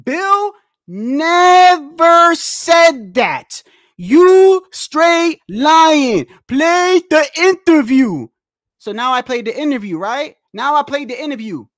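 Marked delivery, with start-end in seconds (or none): 0.0-8.3 mocking imitation. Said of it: "You start off and you tell me".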